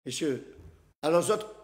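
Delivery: loud, high mock rant; hammed-up retelling of a boastful warning; excited impression, voice up and loud; imitating Serge Chibi. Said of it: "il a dit".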